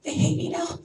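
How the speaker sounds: high, hammed-up worried voice; a new recruit panicking over silence, mock worried; mock panic. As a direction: fret as if everything is ruined. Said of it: "They watched your video".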